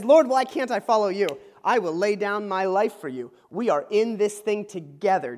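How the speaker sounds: a loud, earnest disciple pledging loyalty; passionate Peter. Retold or imitated. Peter answers Jesus at the supper, passionate. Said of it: "the passionate Peter says".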